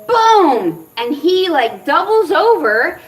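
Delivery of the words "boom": high, loud exclaimed boom; acted-out boom. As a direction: punch it out like a sudden blow. Acting out the sudden blow.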